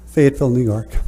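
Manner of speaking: winded, catching breath between words; slightly breathless after hurrying up. Real, not acted. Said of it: "As I catch my breath".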